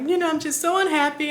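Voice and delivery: high, hurried retold whimper; mock tearful confession; imitated crying. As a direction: whimper it lightly, in a rush. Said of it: "I'm over here crying to her".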